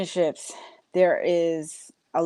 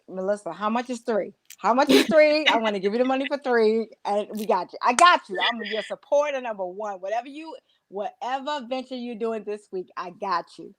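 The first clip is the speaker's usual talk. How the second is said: higher, excited promise to back a friend; eager supporter; 4 semitones higher than usual. Retold or imitated. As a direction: pile on the support like her biggest fan. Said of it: "Melissa would be like".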